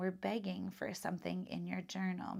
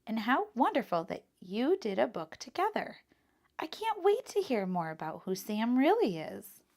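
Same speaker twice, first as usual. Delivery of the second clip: kind librarian; 3 semitones higher, 5 dB louder than usual. Acted. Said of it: "the librarian said kindly".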